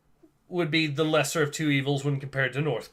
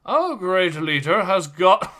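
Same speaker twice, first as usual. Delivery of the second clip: louder mock-reverent stereotype; stereotyped follower; 3 semitones higher, 4 dB louder than usual. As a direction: play up the devoted follower of a great leader. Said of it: "they are playing all the stereotypes".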